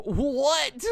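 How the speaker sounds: high loud startled what; surprised. Real, not acted. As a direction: blurt it out, shocked. Surprised by package.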